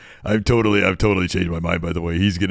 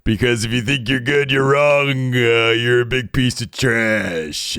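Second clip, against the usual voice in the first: menacing taunt; 4 semitones higher, slower than usual. Acted. Menacing wrestling character taunt.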